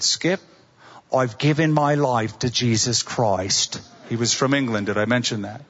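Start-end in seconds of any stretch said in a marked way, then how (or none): 0.0-3.8 humble, not arrogant. Retold or imitated. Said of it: "Very different tone of voice, not a shocking, arrogant tone of voice".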